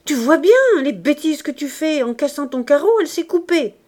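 high, loud reproach; angry cry. A narrator's reading. Mother blaming husband for the hurt child, angry cry. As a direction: shout the blame at him. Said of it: "se redresser et de crier".

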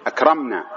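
"أكرمنا" as akram-naa, closed on the m; correct still consonant. Shown as a demonstration. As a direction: let no vowel follow the m of "أكرمنا". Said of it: "أنك أنت المكرم تقول إيش؟". ("أكرمنا" بسكون الميم)

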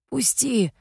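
hoarse rasp. A narrator's reading. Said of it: "прохрипел он".

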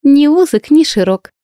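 high, loud teasing giggle; gleeful singsong jab; giggling tease. A narrator's reading. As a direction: rhyme it with a playful giggle. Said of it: "беззлобно хихикнула девушка".

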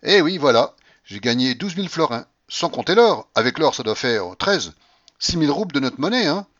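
high, loud grandmother voice; exuberant old grandmother. Acted. Grandmother tells everyone of her roulette winnings, exuberant. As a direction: crow proudly, loud and high.

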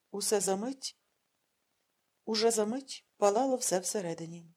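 ordinary delivery, nothing marked

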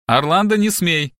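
put-on loud sharp bark at the child; stern loud warning to her daughter; barked order. A narrator's reading. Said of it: "рявкнула Леонора".

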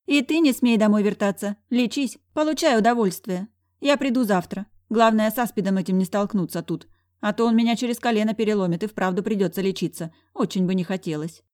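lightly voiced sassy friend; brash best friend. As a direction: order a friend around cheerfully.

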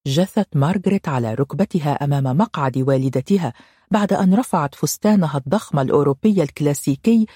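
ordinary delivery

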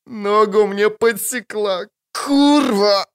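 high, pained howl with a cry. Acted. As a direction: howl it out, wounded on the ice. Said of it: "выл Ольхаршейм".

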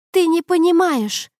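high, loud furious outburst; a tearful scream at her boyfriend; shouting. A narrator's reading. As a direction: yell it at him, voice cracking up high. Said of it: "кричала она".

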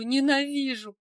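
ненавижу thrown out as a cry. A narrator's reading. Olga repeats hate. (второе «ненавижу» выше и громче, с надрывом)

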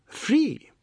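whispered free. A narrator's reading. Oad enticing Sushila, whispered. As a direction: breathe the word free.

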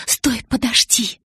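slow, high, half-crying plea; struggling to speak. Acted. Bella tries to speak under Edward's kisses, strained plea. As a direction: get it out between kisses. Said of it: "попыталась выговорить я под его поцелуями".

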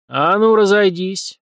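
police sergeant dispersing the crowd, haughty command. A narrator's reading. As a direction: order the crowd aside. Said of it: "надменная команда".

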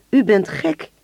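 ingehouden verteller-schreeuw, iets hoger; schreeuwend. A narrator's reading. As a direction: roep het verschrikt, zonder vol volume. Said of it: "schreeuwde hij". (milde, voorgelezen schreeuw)

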